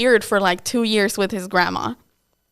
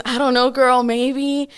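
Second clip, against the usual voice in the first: higher, louder, sassy shrug of a reply; sassy turn; 4 semitones higher, 3 dB louder, slower than usual. Retold or imitated. Friend suddenly drops the tears, sassy and higher. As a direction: flip from tears to careless sass. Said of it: "he turned into another person".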